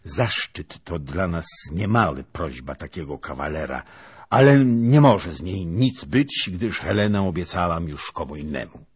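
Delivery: dry, sharp voice. Acted. Princess tells the suitor Helena is promised, sharp. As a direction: reject him with icy sharpness. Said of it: "głos jej stał się suchy i ostry".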